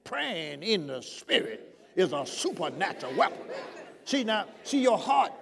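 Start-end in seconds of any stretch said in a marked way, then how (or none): 0.0-3.4 deliberate, word-by-word declaration; emphatic demonstration. Shown as a demonstration. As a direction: spell out "supernatural weapon" with weight. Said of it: "Look, you hear what I'm saying".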